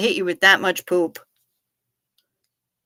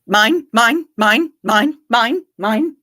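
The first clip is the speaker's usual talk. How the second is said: higher, louder, squawking seagull cry; Finding Nemo seagulls; 4 semitones higher, 4 dB louder, slower than usual. Retold or imitated. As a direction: squawk it greedily like the cartoon gulls. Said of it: "what was it, Finding Nemo?".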